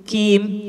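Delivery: "kim" with a light front k; the mistaken thin kim; plain k. Shown as a demonstration. (kim dengan k tipis)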